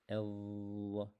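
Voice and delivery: sustained heavy emphatic sound; Dha sound. Shown as a demonstration. Teacher modelling the heavy Dha sound for the class. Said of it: "The sound is".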